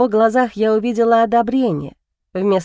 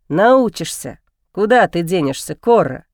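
encouraging; 4 semitones lower than usual. Acted. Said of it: "подбодрил меня Альсар".

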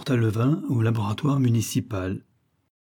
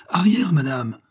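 loud, higher warning; alarmed shout; 5 semitones higher, 4 dB louder than usual. A narrator's reading. Chemists warning the widow away from the glass, alarmed shout. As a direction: push her back with the voice. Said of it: "clamèrent-ils".

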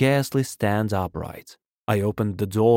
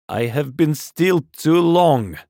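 raised, slow, loud protest; far-carrying loud voice; 6 semitones higher, 5 dB louder, slower than usual. A narrator's reading. Curate refuses to be still, loud and carrying. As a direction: project it so it carries outside. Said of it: "in a tone that must have reached the pit".

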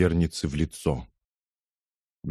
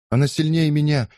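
high, louder voice close to crying; near tears; 8 semitones higher, 4 dB louder than usual. A narrator's reading. Frightened girl admits defeat to the crowd, near tears. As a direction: say it almost in tears. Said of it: "чуть не плача добавила Лиза".

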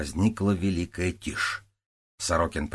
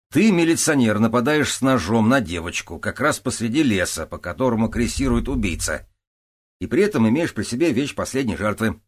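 mocking accusation; 4 semitones higher, 6 dB louder than usual.

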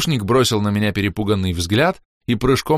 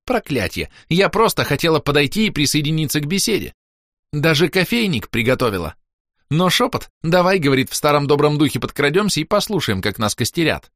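voiced baroness, exasperated; 7 semitones higher than usual. A narrator's reading. Baroness complains, voiced figure.

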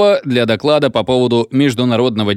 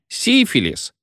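higher, hiccupping through the word Сифилис; with a drawn-out hiccup; 10 semitones higher, slower than usual. A narrator's reading. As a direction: hiccup it out long like a drunk. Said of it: "затяжным образом икая".

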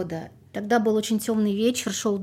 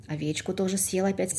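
lively folk tale narration; fairy tale storytelling. Acted. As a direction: tell it like an old village tale. Folk tale told aloud.

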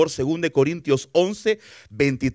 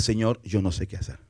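soft and lower, a helpless admission; humble quiet prayer; 9 semitones lower, 8 dB quieter than usual. Acted. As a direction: pray it low and soft, at a loss.

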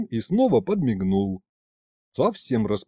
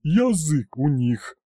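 ворчит; 3 semitones higher, slower than usual. A narrator's reading. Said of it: "проворчала".

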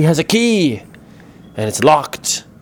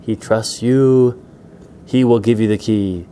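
villain laying down terms; menacing demand; 4 dB louder than usual. Acted. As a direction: lean on each word as a warning. Rats threaten Pedro to get key.

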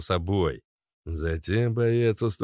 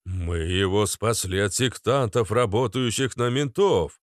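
shouting. Acted. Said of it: "скричал Ярополк".

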